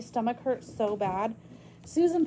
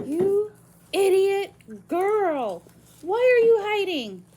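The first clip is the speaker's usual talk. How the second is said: high, loud exasperated scold; woman scolding a child hiding under the bed; angry scolding; 9 semitones higher, 8 dB louder, slower than usual. Acted. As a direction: snap at the girl, frustrated and frightened. Susan finds her under bed.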